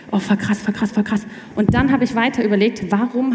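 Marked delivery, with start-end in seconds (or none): 0.1-1.2 laughing in amazement; half-laughing wow; giggly astonishment; amazed laugh. Retold or imitated. Amazed reaction retold.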